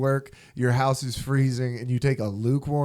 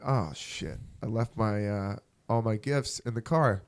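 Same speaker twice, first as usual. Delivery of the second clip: deflated realization; 2 semitones lower, 6 dB quieter than usual. Retold or imitated. Retelling remembering gifts left in the car, deflated realization. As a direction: sink down quietly as it dawns on you.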